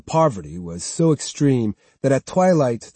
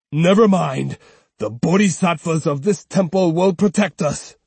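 lightly voiced old man, a bit louder; a hint of an old man steadying her; 4 semitones higher, 3 dB louder than usual. Old uncle reassuring his sister-in-law, lightly voiced.

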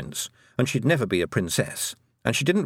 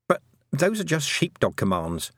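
dismissive; 5 semitones higher than usual. Acted.

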